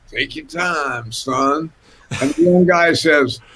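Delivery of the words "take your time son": lazy, stretched-out drawl with long vowels. Telling a story about Otis speaking to a young player, in Otis's drawl. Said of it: "with that drawl".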